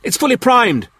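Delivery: high, loud alarmed cry; cried out. A narrator's reading. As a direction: shout it out to stop him. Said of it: "cried Clent".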